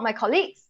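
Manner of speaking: "colleagues" with stress moved to the second syllable, rising; wrong word stress. Shown as a demonstration. Teacher showing the mistake, second-syllable stress on "colleagues". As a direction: lift the end of "colleagues".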